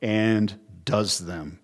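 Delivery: slow "and does them", each word weighted, "and" and "does" pressed; stress on does. Shown as a demonstration. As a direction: drag out "and does them" to drive home obedience. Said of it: "the emphasis is on obedi".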